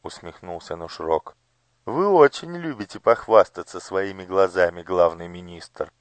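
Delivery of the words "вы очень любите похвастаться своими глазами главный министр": irritated rumble. Acted. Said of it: "раздражённо пророкотал человек-жаба".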